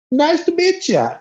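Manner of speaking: high, bashful greeting; shy local girl. Retold or imitated. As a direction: greet him shyly and sweetly.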